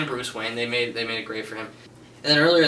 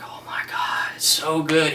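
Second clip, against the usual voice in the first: breathy excited whisper-shout; awed whisper; 4 semitones higher than usual. Retold or imitated. Viewer gasping at the movie, excited whisper. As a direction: gasp it out in awe, half whispered. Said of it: "You're like".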